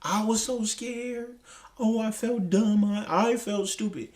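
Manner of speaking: slow, mock self-pitying whine; sarcastic mimic of a self-centred apology; mocking her apology. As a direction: imitate her poor-me tone, slowly. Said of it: "it's about them and how you felt".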